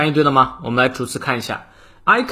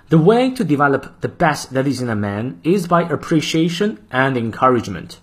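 model reading. Shown as a demonstration. Teacher reading the full quote aloud for practice. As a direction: clear measured reading of the quote. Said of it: "再来一遍".

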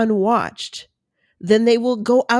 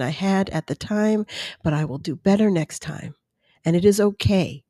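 forgive yourself, one admission at a time; self-compassion; 2 semitones lower than usual. Acted. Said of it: "treated yourself with compassion".

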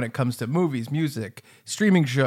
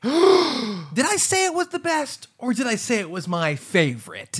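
slow, high-pitched courtroom plea with a gasp; gasp, then plead to the jury slowly; honeyed southern lawyer drawl; 6 semitones higher, slower than usual. Pretend. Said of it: "That's exactly how you said it".

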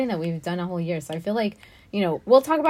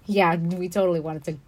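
sarcastic; 2 semitones lower, 4 dB quieter than usual. Real, not acted. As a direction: agree with understated sarcasm. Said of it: "Why'd you say it sarcastically?".

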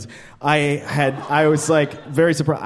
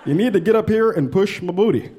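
lightly voiced Obama; 3 semitones higher than usual. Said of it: "Obama would be like".

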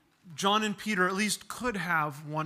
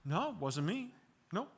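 put-on child denying; 5 dB quieter than usual. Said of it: "begging the response of".

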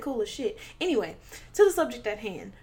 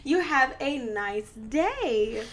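sweet cashier voice; 3 semitones higher, slower than usual. Pretend. Mock cashier, slow and sweet.

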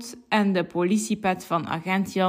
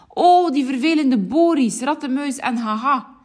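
mild, higher storybook annoyance; understated cross farmer; angry; 5 semitones higher than usual. Acted. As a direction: grumble about the pesky rogues. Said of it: "zegt boer Piet boos".

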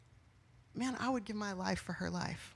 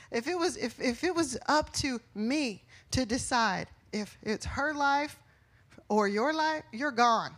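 building from raised to loud and high; rising preacher's shout; 3 semitones higher, 4 dB louder than usual. Real, not acted. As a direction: push it up to a forceful declaration. Preacher's heated hypothetical.

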